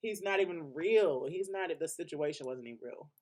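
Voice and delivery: a sassy, scornful dismissal; dismissive put-down. Retold or imitated. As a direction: wave him away like a nobody. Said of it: "The new world said".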